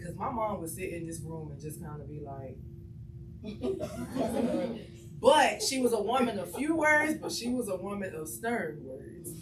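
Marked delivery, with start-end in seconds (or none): 2.6-5.2 higher-pitched chuckle; light run of laughter; chuckling. Real, not acted. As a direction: laugh to yourself without words. Laughs imitating mom just sitting.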